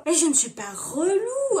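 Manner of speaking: hammed-up offended denial; mock protest. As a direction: protest as if wronged. Her protest in run-through.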